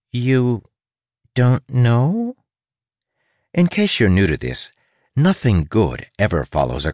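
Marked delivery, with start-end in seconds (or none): 0.1-2.4 slightly pinched, higher, with a pause after YOU. A narrator's reading. Rat surprised at the prisoner's ignorance, lightly pinched. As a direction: squeeze it out haltingly, pitched up. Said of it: "had a pinched quality to it".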